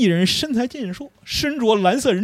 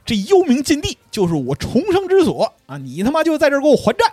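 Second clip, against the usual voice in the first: higher, louder furious roar; mock furious roar; 8 semitones higher, 5 dB louder than usual. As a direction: yell it like a vengeful ghost. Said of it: "蝎子说". (蝎子在地狱里怒吼)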